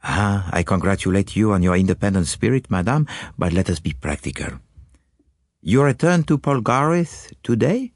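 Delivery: calm Belgian sleuth probing gently; Poirot. Acted. Poirot questions his anxious client, calm and probing.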